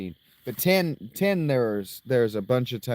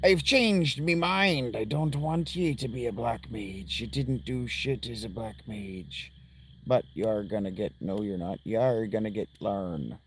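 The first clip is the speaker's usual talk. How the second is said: pirate voice; 2 semitones lower than usual. Acted. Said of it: "I can't get out of that voice".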